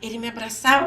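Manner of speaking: ordinary talk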